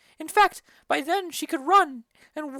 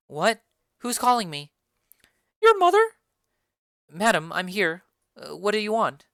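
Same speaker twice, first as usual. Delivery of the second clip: lightly voiced young girl, a bit lower; a girl answering her mother's call; Juliet; 7 semitones lower, 4 dB louder than usual. Juliet answers her mother, lightly voiced girl. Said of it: "Juliet enters".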